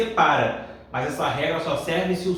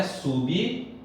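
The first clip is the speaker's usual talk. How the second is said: "sublinhar" in pieces, sub, li, nhar; syllable by syllable; 2 semitones lower, 4 dB quieter than usual. Shown as a demonstration. Teacher shows the syllable separation, "sublinhar" piece by piece. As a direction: pause between the parts of "sublinhar". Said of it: "a separação é".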